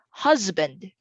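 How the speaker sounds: "Husband" with a clear Z in the middle; S sounded as Z. Shown as a demonstration. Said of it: "would have the S sound like Z".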